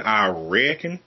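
lightly Southern drawl; Southern accent. Acted. Quoting Nashville locals, Southern accent. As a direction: say it with a Southern twang. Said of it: "people with their Southern accents".

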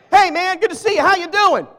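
breezy, loud throwaway hello; casual greeting. Retold or imitated. Preacher showing the church how folks say hi in passing, breezy. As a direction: toss off a hello you don't mean.

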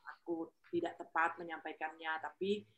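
soft, careful apology before giving an opinion; humble and polite. Shown as a demonstration. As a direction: ask permission gently, humbly. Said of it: "gunakan kalimat, intonasi, tekanan, nada itu dalam kerendahan hati".

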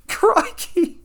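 high mock Aussie exclamation; a hammed-up Crikey; Australian accent. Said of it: "in a poor Australian accent".

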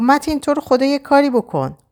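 high pleading cry for help; desperate plea. Acted. Shadi begging Matin to help Ava, desperate. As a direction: beg him to act, frantic.

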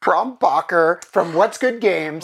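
Brombacher said as "Brom-backer" in a Philly accent. Real, not acted. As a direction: Brombacher with a hard k, Philly style. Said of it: "slipped back into my Philly accent".

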